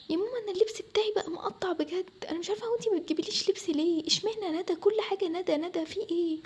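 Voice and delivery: high, hurt complaint; aggrieved whine. Acted. Daughter begging mother for clothes like her sister's, aggrieved. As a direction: protest the favouritism in a pained voice.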